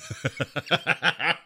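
high burst of laughter; laughing. Real, not acted. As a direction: laugh at the cartoon quip. Laughing at the cartoon character line.

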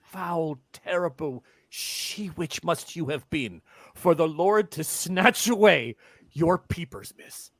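slow, emphatic outrage; scandalised gasp. Acted. Peddler appalled at the blind girl, slow and outraged. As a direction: drag it out in horror. Peddler shocked, then insulting.

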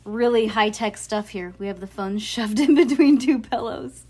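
loud laughing words. Real, not acted. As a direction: laugh through the line. Laughing at phone setup.

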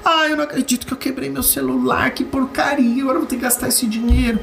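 high-pitched mock fury over a broken screen; mock angry grumble. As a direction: play the annoyed phone owner. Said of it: "mas você vai com raiva".

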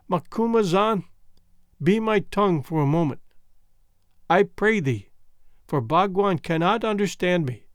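put-on faint, fading voice of a wounded girl; dying young woman. Foulata telling Bhagwan how Gagool stabbed her, weakly. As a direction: speak as if life is slipping away.

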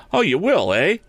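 high, taunting half-shout; shouted challenge. A narrator's reading. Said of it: "shouted Tom".

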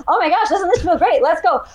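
high, bubbly camera cheer with a laugh; peppy trainer cheer. Retold or imitated. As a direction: pump up the viewers like a fitness coach on camera. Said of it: "I have to look at the camera and say".

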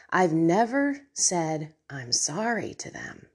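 fighting tears on the confession; choked up. Real, not acted. Admitting to listeners she never apologized, choked up. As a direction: voice breaking down to almost nothing. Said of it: "I'm gonna get emotional".

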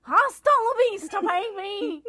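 loud, high action-movie sign-off; Terminator catchphrase. Pretend. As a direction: deliver it like a movie hero. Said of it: "all I gotta say is".

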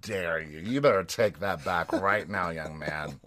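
slow, drawn-out mock indignation; mock scolding. Co-host scolds younger friend over age joke, mock scolding. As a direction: scold with exaggerated offence, stretching HOW DARE YOU.

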